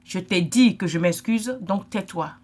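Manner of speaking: slow, loud, curt mock brush-off; imitating someone shutting down an apology, slow and curt; dismissive brush-off. To a hurt sister, a slow curt mock dismissal. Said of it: "Tu lui dis en bon français".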